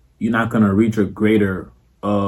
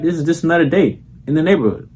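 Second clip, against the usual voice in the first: quick, offhand and unbothered; mildly casual cool, faster; nonchalant; 4 semitones higher than usual. Shown as a demonstration. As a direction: brush it off like it's routine. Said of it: "You gotta be like".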